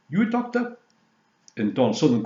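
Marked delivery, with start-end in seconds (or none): 0.1-0.8 laundrette man. Retold or imitated. Retelling the laundrette scene.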